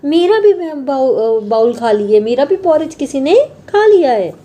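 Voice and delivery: mama bear upset about her bowl. Acted. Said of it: "उन्होंने बोला". (मम्मा भालू की ऊँची शिकायती आवाज़)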